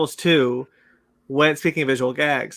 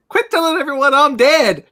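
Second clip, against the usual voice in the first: quoted movie line; 9 semitones higher, 4 dB louder than usual. Retold or imitated. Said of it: "the Brother Bear bit".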